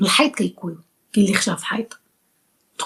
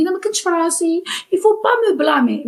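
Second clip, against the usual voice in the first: mocking excuse; 6 semitones higher than usual. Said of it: "وتقولي".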